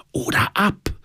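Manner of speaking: high-pitched whisper back; whispered reply. A narrator's reading. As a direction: whisper back to your partner. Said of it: "flüsterte ich zurück". (zurückgeflüstert)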